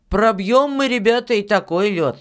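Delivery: put-on high, forceful boy's voice; plucky child insisting; Filka, confident boy. Boy boasts to the miller.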